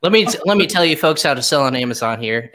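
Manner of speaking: lightly put-on Southern grandpa giving advice; playful hint of an old Southern accent; old person Southern voice. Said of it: "that's my old person voice ... really Southern".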